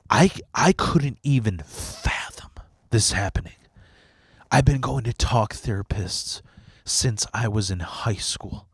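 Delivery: barely getting the words out while crying; choked whisper. Real, not acted. Recalling breaking down in his therapist's office, tearful whisper. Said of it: "I broke down crying".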